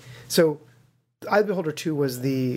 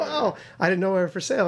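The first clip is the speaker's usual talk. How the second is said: mock-surprised snark, pitched up; snarky kid; 6 semitones higher than usual. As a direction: play the cheeky kid, lightly. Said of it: "I'm a snarky kid".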